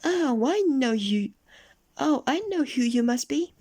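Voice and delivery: very high, loud squeaky voice; little goblin voice. A narrator's reading. Goblin recognising Mister Uppity, very high squeak. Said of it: "said the goblin".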